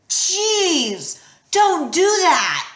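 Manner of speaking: high, loud startled protest. A narrator's reading. Percy startled by invisible Annabeth. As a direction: jump and yelp it.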